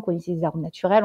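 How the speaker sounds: ordinary delivery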